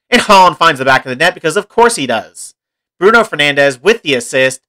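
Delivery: lightly animated goal commentary; live play-by-play. Pretend. Gamer calls his team's opening goal, light play-by-play. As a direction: call the goal like a match commentator.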